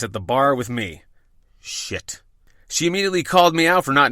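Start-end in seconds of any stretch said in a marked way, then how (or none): 1.6-2.2 whispered curse. Retold or imitated. Narrator dreads the critic arriving.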